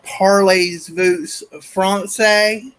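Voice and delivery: slow French with a light Kentucky twang; mother's Kentucky accent mangling French; mother asking in Kentucky-accented French. Retold or imitated. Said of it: "break out my own accent so that I sound ... like my mother".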